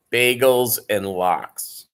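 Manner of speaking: spelled out slowly for newcomers; slow, deliberate naming of the dish; slow explanatory repeat. Shown as a demonstration. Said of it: "That is for the uninitiated".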